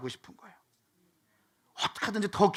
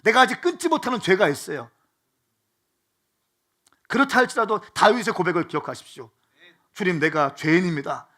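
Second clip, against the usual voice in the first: raised, loud preacher's cry of comfort; fervent preaching; 3 semitones higher, 8 dB louder than usual. Acted. Pastor to congregation in slump, loud fervent preaching. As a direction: preach it out to the whole hall, fired up.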